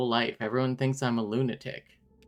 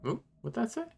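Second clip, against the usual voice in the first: high curious ooh; 10 semitones higher, 6 dB quieter, faster than usual. Real, not acted. Squinting at unreadable game text.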